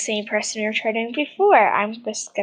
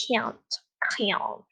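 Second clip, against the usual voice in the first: "can't" in a put-on American accent; American-accented "can't", said on its own; 6 dB quieter than usual. Shown as a demonstration. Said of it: "I'm doing American accent".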